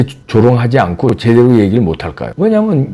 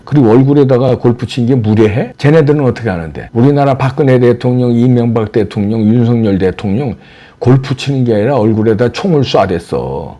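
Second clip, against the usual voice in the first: normal talking voice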